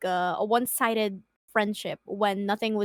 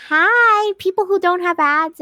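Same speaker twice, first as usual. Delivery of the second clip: loud greeting; 6 semitones higher, 7 dB louder than usual. Real, not acted. Greeting viewers without ads.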